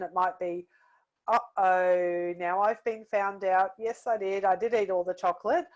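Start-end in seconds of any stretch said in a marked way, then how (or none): 1.3-5.7 guilty confession. Retold or imitated. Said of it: "depending on my expression".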